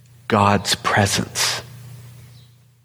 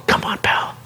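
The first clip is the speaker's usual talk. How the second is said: gentle encouragement. Retold or imitated. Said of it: "he's going".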